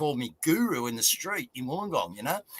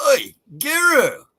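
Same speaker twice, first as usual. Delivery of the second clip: long, high, loud call of Guru; a local bloke hailing Davo from the driveway, loud drawn-out yell; 10 semitones higher, 8 dB louder, slower than usual. Retold or imitated. Hail him from down the driveway, slow and loud.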